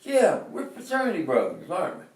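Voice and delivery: high, loud, eager friend's voice; retold excited greeting. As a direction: imitate a frat brother insisting you know him. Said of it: "he, he kept saying".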